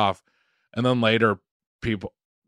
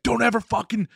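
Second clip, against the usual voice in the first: mock swearing; 11 semitones higher than usual. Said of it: "started swearing at me".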